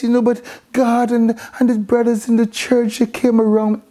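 hesitant, halting mock confession; imitated effeminate man. Preacher mocks men talking on radio programs, imitated effeminate hesitant voice. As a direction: mimic a radio guest faltering through his story. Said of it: "like if you're effeminate".

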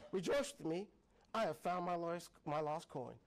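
steady read of the parable; scripture reading. Acted. Preacher reading Luke fifteen aloud to the congregation. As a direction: read the passage to the church.

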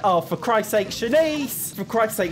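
high, exasperated cry at Shanice; exasperated outburst. Real, not acted. Player exasperated at her Sim Shanice, high exasperated cry. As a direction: throw your hands up and yell her name.

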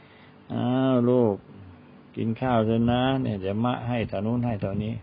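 coaxing parent. Retold or imitated. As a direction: gently coax the child to eat. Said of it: "พ่อแม่นี่ต้องตามง้อ".

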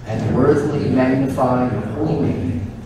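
slow, measured liturgical prayer; solemn prayer. Acted. Priest leading the congregation in prayer, solemn and measured. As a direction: intone it like a priest at the altar.

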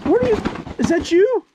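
very high, halting disbelief; hammed-up shock at a reunion; astonished. Father sees long-lost son.

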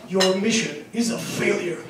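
deep game announcer robot voice; grim robotic voiceover line; low robotic voice. Retold or imitated. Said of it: "low robotic voice".

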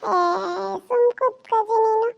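loud, bratty demand; demanding shout. Acted. Boy yelling at grandmother for new clothes, loud and demanding. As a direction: yell it at grandma like a spoiled kid.

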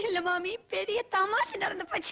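amused, laughter breaking into the words; giggling. Acted. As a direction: talk through giggles. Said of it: "ஏன் இப்படி சிரிச்சிட்டு வர?".

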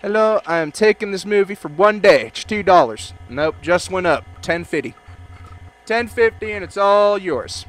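lightly put-on Russian accent clerk; mild Russian accent haggling; a hint of Russian accent. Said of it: "pop on a Russian accent".

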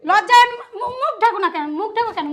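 loud burst of scolding; angry shaming. Acted. Woman shames the exposed pair, loud angry scolding.

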